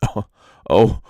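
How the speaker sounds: high, loud lament; cry out. A narrator's reading. Vain peacock lamenting his heavy feathers, loud high cry. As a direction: wail it up to the sky. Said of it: "cried the peacock".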